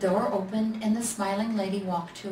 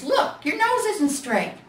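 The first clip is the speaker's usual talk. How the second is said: higher, louder, slow pointed bear; other bear; 8 semitones higher, 5 dB louder than usual. A narrator's reading. The other bear tells the little bear his nose is crooked. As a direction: point it out bluntly.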